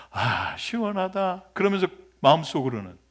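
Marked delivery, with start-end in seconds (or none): 0.1-1.4 relieved sigh. Acted. Jonah resting in the shade.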